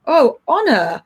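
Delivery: calm, even question, no blame in it; very neutral. Shown as a demonstration. Mother asking her daughter about the towel, calm and neutral. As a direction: ask it plainly, keep all judgment out. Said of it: "very neutrally".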